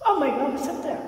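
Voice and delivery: startled. Real, not acted. Sees something in the dark.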